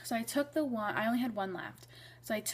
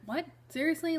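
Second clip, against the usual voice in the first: higher, louder mock disbelief; imagined shocked reaction; 7 semitones higher, 4 dB louder than usual. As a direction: act out a stunned double take. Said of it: "I kinda wanted her to be like".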